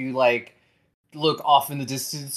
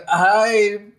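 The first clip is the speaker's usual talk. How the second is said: put-on awkward girl; 6 semitones higher than usual. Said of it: "It's like waving and is like".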